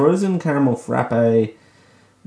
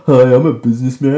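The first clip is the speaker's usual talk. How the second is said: louder, fast mock businessman greeting; 7 dB louder, faster than usual. Introducing herself to viewers in a lightly voiced businessman pitch. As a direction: play a lightly voiced salesman. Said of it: "my voice went so low there".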